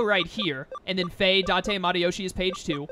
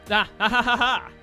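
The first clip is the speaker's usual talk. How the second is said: real laughter, higher and louder; laughing; 4 semitones higher, 5 dB louder than usual. Real, not acted. Laughs at game dialogue.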